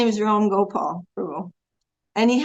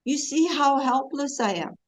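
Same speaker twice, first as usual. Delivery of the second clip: pleading prayer; 3 semitones higher than usual. Shown as a demonstration.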